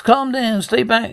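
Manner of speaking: urgent shout. Acted. Host holding back armed guest.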